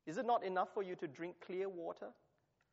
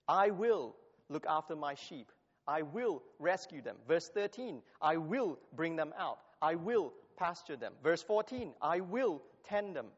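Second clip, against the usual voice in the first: "I will" pressed louder each time; stress on I will; 3 dB louder than usual. Shown as a demonstration. Preacher driving home God's repeated "I will", emphatic. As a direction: hammer "I will" at every verse. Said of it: "how the phrase, "I will," is repeated".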